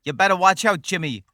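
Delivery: loud, hammed-up villain threat; mock threat. Threatening Jimmy as the cake man, hammed-up villain. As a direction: warn Jimmy like a third-rate Batman villain. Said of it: "That sounded like a, a threat".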